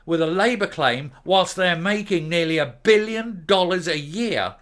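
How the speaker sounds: loud, slow, indignant outrage at the bosses; angry rant. Real, not acted. Ranting to viewers about the bosses, angrily loud. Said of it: "I did really kind of lose my shit".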